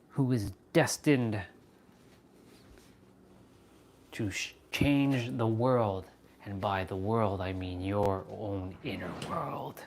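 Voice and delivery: slow, lightly solemn intoning; half-serious sage musing; mock guru voice. Streamer finishing a mock sermon for the chat. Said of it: "I talk like that a lot".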